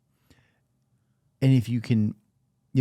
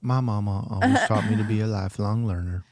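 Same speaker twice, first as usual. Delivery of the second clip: put-on Southern mama accent. Quoting mama's lesson to the co-host, light Southern accent. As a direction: say it with a hint of a homespun Southern accent. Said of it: "I don't know why I made her Southern".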